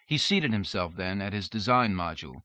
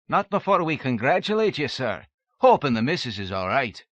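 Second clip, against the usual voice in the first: eager servant; 5 semitones higher, 6 dB louder than usual. A narrator's reading. Servant congratulates, raised voice.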